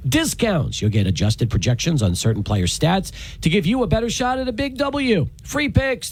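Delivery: upbeat sponsor ad read. Acted. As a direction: sell it like a radio ad. Host reads sponsor ad.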